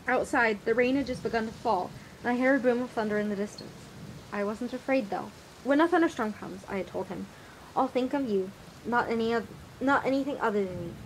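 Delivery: reading a tender passage aloud; story narration. A narrator's reading. Reads book excerpt aloud.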